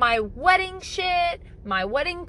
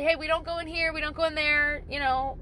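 clear and calm. Retold or imitated. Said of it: "she'll say very clearly".

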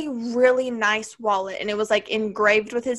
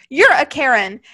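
mildly raised, emphatic retold retort; all-caps retort; 2 semitones higher, 4 dB louder than usual. Reading her friend's all-caps text, mock emphatic. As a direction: read it out as if in capitals. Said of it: "in all caps".

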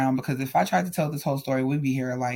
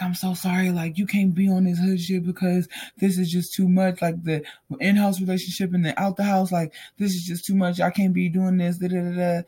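imitated apologetic pleading, pitched higher; acted remorse; 4 semitones higher than usual. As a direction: mimic his remorseful excuses in a raised voice. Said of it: "acting all remorseful".

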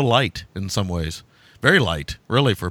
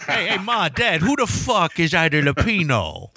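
put-on kid asking parents; 7 semitones higher than usual. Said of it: "I didn't say that".

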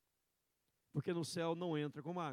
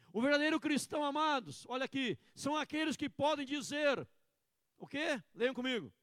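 louder, higher call to the church; fervent preaching; 9 semitones higher, 7 dB louder than usual. Acted. Pastor urging the congregation to repeat after him, fervent.

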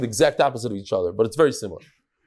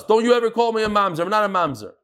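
fast, higher-pitched indignant retort; imitated outrage, rushed and then dropping; mock going nuts; 4 semitones higher, faster than usual. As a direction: act out an offended man flipping out. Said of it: "He went nuts".

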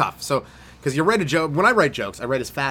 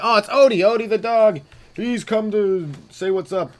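excited dog greeting; 9 semitones higher, 5 dB louder than usual. Real, not acted. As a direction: coo happily at the puppy.

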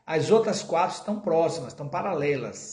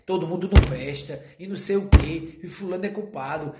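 mock complainer; 5 dB louder than usual. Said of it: "se eu ficar dizendo assim".

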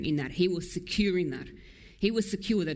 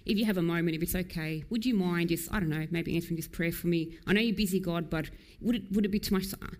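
timid polite prayer. Retold or imitated. Preacher mocking a timid pray-er, meekly polite. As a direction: hedge every word like a shy petitioner. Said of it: "politely sitting there with their hands together, bowing, going".

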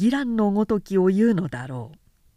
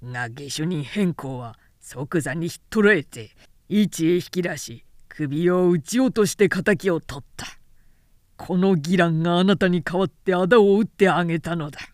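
smug general talking down to the widow; patronizing villain; 2 semitones lower than usual. Acted. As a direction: lay on the false kindness. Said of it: "恩着せがましくこう言って".

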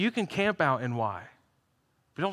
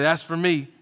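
louder, livelier call-and-response; louder prompt; 4 dB louder than usual. Shown as a demonstration. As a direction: push the crowd to say it back. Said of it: "ten thirty, we're gonna work on it".

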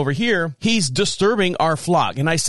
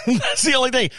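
usual speaking voice

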